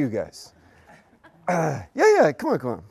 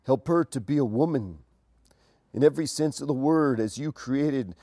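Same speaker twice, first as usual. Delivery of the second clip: lower, softer prayer voice; 6 semitones lower, 4 dB quieter than usual. Acted. Pastor praying for the engaged couple, soft and low.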